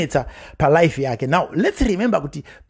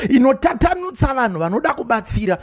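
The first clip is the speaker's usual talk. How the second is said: ordinary delivery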